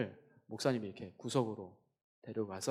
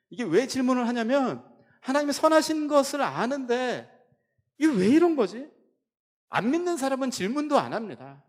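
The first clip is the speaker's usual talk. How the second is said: high, loud impassioned sermon; preaching at full force; 9 semitones higher, 6 dB louder than usual. Acted. Preacher urging the congregation to question God, impassioned and loud. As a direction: preach it with rising fervour.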